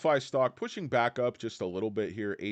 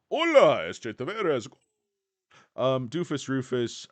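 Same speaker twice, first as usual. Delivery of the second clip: excited greeting; 4 semitones higher, 6 dB louder than usual. Real, not acted. Greeting a viewer.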